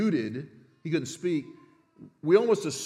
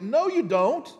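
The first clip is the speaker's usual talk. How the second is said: loud, high, firm "No, you don't"; a mother shutting down the room; emphatic refusal; 6 semitones higher, 3 dB louder than usual. Retold or imitated. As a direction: Elizabeth refuses the family, forceful. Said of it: "Here it's uxki".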